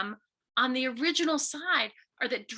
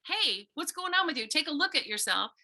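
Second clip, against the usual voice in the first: compassionate; 2 semitones higher than usual. Pretend. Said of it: "throw a compassionate".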